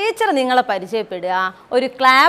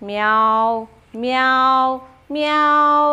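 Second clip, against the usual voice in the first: kitten meow; much slower than usual. Acted. Teacher showing kids the cat's sound, mock meow. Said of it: "It says meow".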